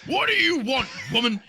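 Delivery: annoyed cartoon buck; high grumpy buck voice; squeaky buck.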